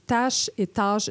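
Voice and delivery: "tâche et tâche" slow, with two different a vowels; tâche contrast. Shown as a demonstration. Recalling the a contrast for listeners, slow. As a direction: draw out both words. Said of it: "je l'ai dit".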